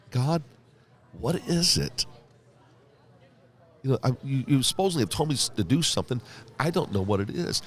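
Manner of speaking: imitating his fed-up prayer that morning; frustrated prayer. Frustrated prayer retold to God.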